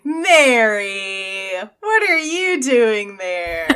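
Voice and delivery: slow, laughing disbelief on "Merry"; amazed question. Retold or imitated. The hobbits finding Merry on the road, slow and laughing in disbelief. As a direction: ask it half laughing, half astonished. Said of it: "It was like".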